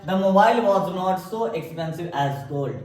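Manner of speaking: very slow, word by word, for copying; slow dictation. Shown as a demonstration. Teacher dictating the example to the class, very slowly. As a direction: spell it out so students can write it.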